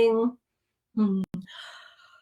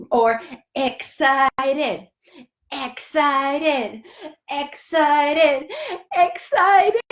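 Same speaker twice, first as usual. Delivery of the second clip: building excitement; much slower than usual. Acted.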